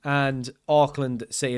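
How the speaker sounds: shaky fake New Zealand accent; bad New Zealand accent. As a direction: put on a New Zealand accent badly for the intro. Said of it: "That was a really bad New Zealand, Australian accent".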